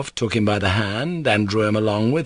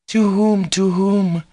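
put-on high, louder girlish cry; 11 semitones higher, 4 dB louder, slower than usual. Lisa demands an answer through the door, crying out. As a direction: cry the question out insistently. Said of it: "cried Lisa".

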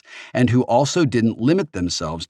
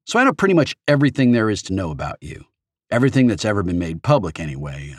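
fast, gushing fangirl rambling; nervous young fan; faster than usual. Acted. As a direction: babble on, starstruck and embarrassed. Young fan character voiced.

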